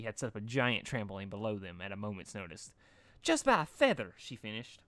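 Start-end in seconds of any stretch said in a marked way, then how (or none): 3.2-4.1 much higher, chirpy and bouncy; high bubbly Pinkie voice. A narrator's reading. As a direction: squeak it out cheerfully.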